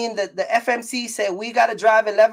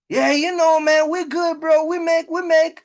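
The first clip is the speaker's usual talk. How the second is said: mock braggart; 6 semitones higher than usual. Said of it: "Amazon is catching on to that nonsense".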